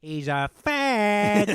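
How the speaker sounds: slow, loud, high mob-boss growl; drawn-out exasperated mobster; Tony Soprano. Retold or imitated. Tony to his therapist, slow loud mobster impression. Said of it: "He's like".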